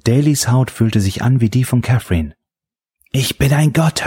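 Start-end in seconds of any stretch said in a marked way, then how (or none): 3.1-4.0 higher triumphant shout. A narrator's reading. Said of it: "hörte er Daly wiederholen".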